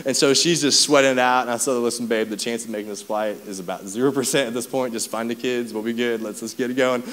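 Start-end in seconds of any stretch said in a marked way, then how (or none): 1.7-7.0 calming. Retold or imitated. Calming panicked wife on phone.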